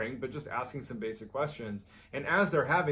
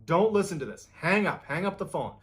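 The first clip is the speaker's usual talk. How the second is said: raised, higher-pitched urgent warning; retold yelling; 5 semitones higher, 7 dB louder than usual. Bill warning his friend off the mysterious voice, retold yelling. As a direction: imitate someone yelling a warning down the phone. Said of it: "he starts yelling to Michael".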